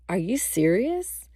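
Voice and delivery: understated questioning, rising at the end; mild disbelief. Retold or imitated. Boyfriend stares at her on hearing the news, mildly disbelieving. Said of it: "his eyes locked in on me".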